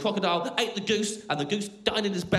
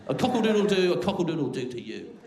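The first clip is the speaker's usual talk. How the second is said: mock crowing; 2 semitones lower than usual. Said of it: "crowing gaily at the moon".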